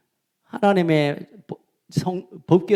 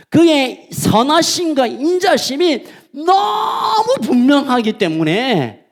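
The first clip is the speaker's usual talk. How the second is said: emphatic slow shout; 7 semitones higher, slower than usual. Real, not acted. Preacher to congregation, slow emphatic shout. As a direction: drag out each word with force. Preacher stressing God's certainty.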